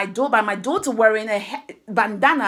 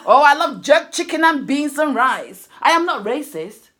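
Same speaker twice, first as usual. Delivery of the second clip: hammed-up eager denial, a bit louder; mock defensive; 3 semitones higher, 5 dB louder than usual. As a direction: play the protesting "not racist" person, overdone. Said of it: "they be like".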